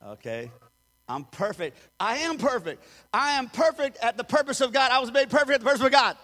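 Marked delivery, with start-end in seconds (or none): 2.0-6.2 from plain to loud and fast; building declaration. Acted. Pastor confessing to the church, building to a loud rush. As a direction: ramp it up into a rapid proclamation.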